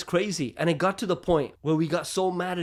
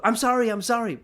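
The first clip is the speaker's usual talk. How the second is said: pleading apology; 6 semitones higher, 3 dB louder than usual. Retold or imitated. Acts out repeated apology.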